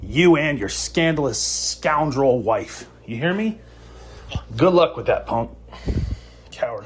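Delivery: preacher-like damnation; vengeful threat. Real, not acted. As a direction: pronounce his doom. Prophetic threat.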